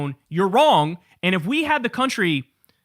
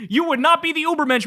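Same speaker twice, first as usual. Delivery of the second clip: laughing mockery; 9 semitones higher than usual. Real, not acted. Roasting a eugenics fan on camera, laughing through it. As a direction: crack up while you insult him.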